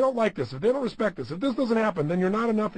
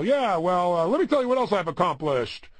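blowhard; 4 dB louder than usual. Retold or imitated. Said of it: "seen as a blowhard".

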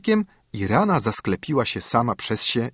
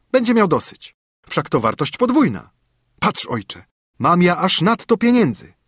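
put-on high, carefree young son; cheerful son; 6 semitones higher, 4 dB louder than usual. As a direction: breezily shrug off the debt. Son and father talk money.

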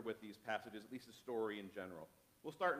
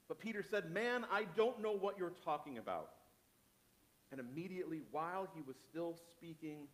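measured, earnest Bible reading; solemn scripture reading. A narrator's reading. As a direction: read it as a preacher telling the story. Reads scripture story aloud.

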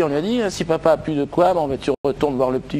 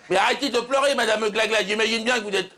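raised, higher-pitched plea to calm down; exasperated soothing; 6 semitones higher than usual. Acted. Doctor to a sobbing patient, exasperated plea. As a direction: plead over someone's crying, pitch climbing.

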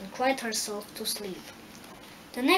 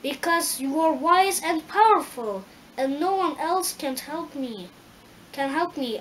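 high, loud eager scarecrow voice; brave scarecrow; 4 semitones higher, 5 dB louder than usual. Acted. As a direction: plead bravely like a simple straw man. Scarecrow pleads.

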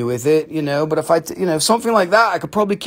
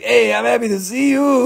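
higher-pitched cheeky "hey" with a laugh in it; greeting bit; 6 semitones higher than usual. Acted. Seller voices the pocketed stone at a party, joking high greeting. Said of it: "be like".

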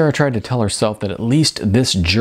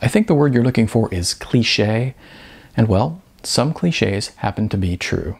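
calm. Acted. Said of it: "Sarah spoke calmly".

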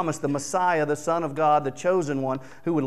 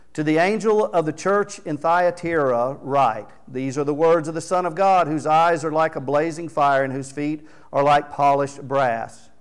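louder, declaiming scripture from the pulpit; scripture reading; 4 dB louder than usual. Acted. Preacher reading Revelation to his church, declaiming. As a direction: proclaim the verse to the hall. Reads scripture aloud to congregation.

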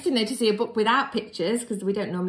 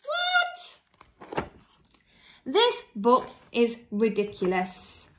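mock shock; much slower than usual. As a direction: squeal in disbelief. Reader shocked.

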